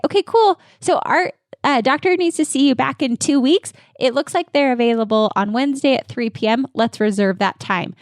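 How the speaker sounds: cheerful chairside scheduling pitch; upbeat assistant script. Shown as a demonstration. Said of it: "I always like the assistants or whomever's back there to say".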